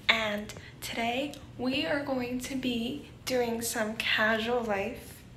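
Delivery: slow groggy morning voice; just-woke-up slow delivery. Real, not acted. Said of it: "it's my morning voice".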